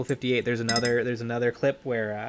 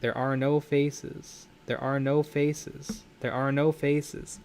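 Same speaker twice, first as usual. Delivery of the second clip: creepy robot voice; slower than usual. Retold or imitated. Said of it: "a creepy robot voice saying".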